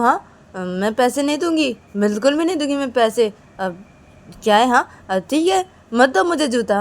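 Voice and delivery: acted-out huffy protest; indignant refusal. Kajal refusing to pay for her shoe, indignant.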